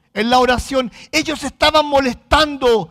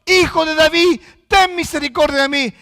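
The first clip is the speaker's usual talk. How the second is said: raised, pleading preacher's quote; crying out to God; 3 semitones higher, 4 dB louder than usual. Retold or imitated. Blind beggars calling to the Lord, crying out. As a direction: call out for mercy, imitating blind beggars. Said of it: "claman a Dios".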